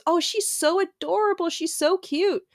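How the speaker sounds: put-on high, sweet old-lady voice; old woman gushing. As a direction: coo it like a doting old stranger. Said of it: "she goes".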